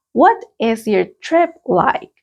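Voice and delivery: slow, clear question; a teacher's clear model question. Shown as a demonstration. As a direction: read it out slowly and clearly. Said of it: "Let's practice the pronunciation".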